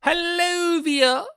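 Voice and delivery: very high, loud sing-song hello; cartoon squeak calling a pet; high squeaky greeting. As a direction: call out in a tiny squeaky voice. Squeaky voice again.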